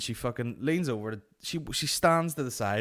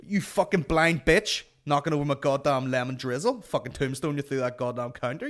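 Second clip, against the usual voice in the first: loud, raised-pitch hammed-up rant; mock aggression; 4 semitones higher, 5 dB louder than usual. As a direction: bellow it as an over-the-top threat. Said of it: "just so aggressive about buns".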